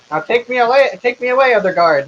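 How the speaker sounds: high, eager plea; pleading milkman. Acted. Milkman urging a guard to carry him away, high and pleading.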